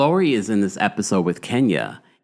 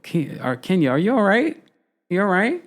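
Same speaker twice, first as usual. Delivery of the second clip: high, questioning retold reaction; mock concern; 9 semitones higher than usual. Fan reacting to Kenya's antics, mock concern. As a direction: check on someone in a high, rising voice. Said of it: "I was just like".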